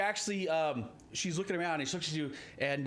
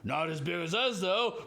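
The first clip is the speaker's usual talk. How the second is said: ettin heads; slower than usual. Acted. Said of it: "both heads, in fact, look like".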